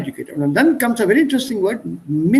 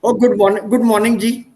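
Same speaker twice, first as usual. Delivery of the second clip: lively Indian English greeting, louder, retroflex d in good; Indian English accent; 3 dB louder than usual. Shown as a demonstration. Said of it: "accent is coming through".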